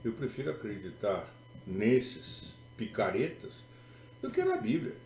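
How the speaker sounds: mock declaration of preference, kicking up at the end; sarcastic. Preacher mocking trust in dubious prophets, sarcastic. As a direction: say it with pointed sarcasm. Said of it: "eu digo com sarcasmo".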